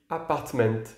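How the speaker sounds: "apartment" said in English with the final T sounded; English "apartment", final T clearly pronounced; English pronunciation. Shown as a demonstration. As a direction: dis "apartment" en anglais, avec le T final. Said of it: "Mais en anglais, oui".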